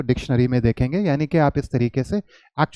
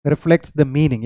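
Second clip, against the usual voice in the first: slow dictation; much slower than usual. Shown as a demonstration. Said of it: "तो आप क्या करोगे".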